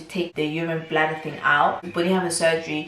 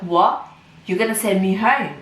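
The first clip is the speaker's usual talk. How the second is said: retold incredulity; 3 semitones higher, 5 dB louder than usual. Retold shocked reply to threat.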